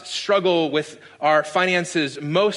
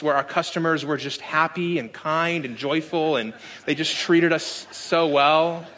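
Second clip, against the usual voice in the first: sarcastic. Acted. Preacher recalling his Starbucks customers to the congregation, sarcastic. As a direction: dryly pretend to be grateful, stretching the last words. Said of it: "you're getting the sarcasm in my voice".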